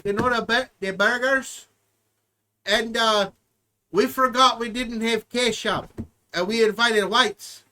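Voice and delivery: lightly put-on Hispanic accent as Carlos; a hint of a Hispanic accent; mock Hispanic accent. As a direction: play a bad Hispanic character, lightly. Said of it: "bad Hispanic".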